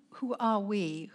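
ordinary talk

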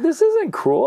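high, loud playful denial; mock-indignant retort. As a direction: bounce it right back, amused. Dad rebutting son playfully.

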